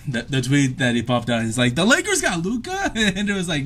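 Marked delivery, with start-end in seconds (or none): 1.7-2.9 high-pitched incredulous question; retold disbelief. Imitating little brother reading the tweet, incredulous. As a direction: imitate a stunned kid reading shocking news.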